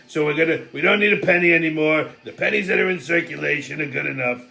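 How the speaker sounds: a hint of Trump's blunt rambling; Donald Trump impression. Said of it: "it took Donald Trump to figure that out".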